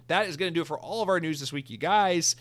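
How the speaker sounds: breathless, panting between words; out of breath. Real, not acted. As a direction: talk while still catching your breath. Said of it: "I'm so out of breath".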